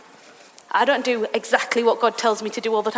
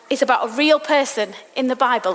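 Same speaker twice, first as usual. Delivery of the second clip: usual speaking voice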